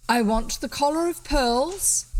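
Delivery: a hint of a cool robber naming his price; highwayman. A narrator's reading.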